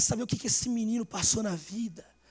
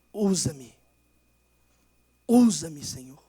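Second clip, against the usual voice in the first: prayerful plea; 6 semitones lower, 4 dB louder, much slower than usual. Shown as a demonstration. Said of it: "É a oração".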